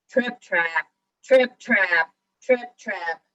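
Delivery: loud trip-trap hoofbeats; big goat's forceful rhythmic steps; heavy stamping hooves. A narrator's reading. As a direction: stamp out each word hard. Biggest goat stamps on bridge.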